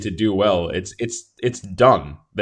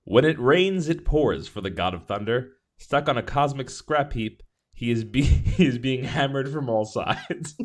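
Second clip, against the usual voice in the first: reading aloud; 3 semitones higher than usual. Acted. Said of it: "shall I read this out to you?".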